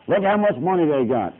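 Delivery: lightly tempting brag; Satan boasting. Retold or imitated. Preacher voicing Satan pointing at rich men, mild mock. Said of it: "Satan gets in and says".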